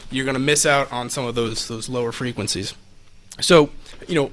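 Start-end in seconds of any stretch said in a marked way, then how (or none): 0.1-1.7 distant, off-mic voice; far from mic. Shown as a demonstration. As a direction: speak from across the room. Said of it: "I'm far away".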